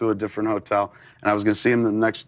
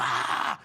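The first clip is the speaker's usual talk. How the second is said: breathy, voiceless mock scream; hushed imitation of a man screaming as he goes down; imitated scream; 6 dB quieter than usual. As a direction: scream it under your breath, all air. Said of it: "like, screaming as if he was in a plane".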